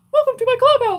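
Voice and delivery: belted out in a tiny, high-pitched voice. Told they sound like Mickey Mouse, the speaker answers in a Mickey Mouse voice. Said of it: "You sound like Mickey Mouse".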